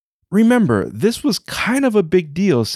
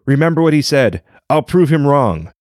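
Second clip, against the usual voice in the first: boastful dragon; 4 dB louder, faster than usual. Acted. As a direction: puff up and boast to the whole street.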